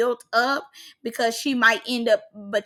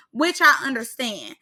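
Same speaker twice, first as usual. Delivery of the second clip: ordinary talk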